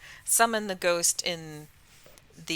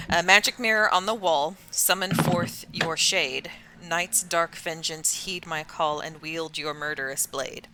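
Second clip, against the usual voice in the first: reciting an incantation. Shown as a demonstration. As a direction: intone the rhyme like a spell. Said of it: "recite a rhyme that goes as such".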